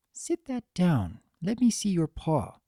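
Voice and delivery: a gentle but firm order to her friend; demanding. Acted. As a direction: insist he show the paw. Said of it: "she demanded".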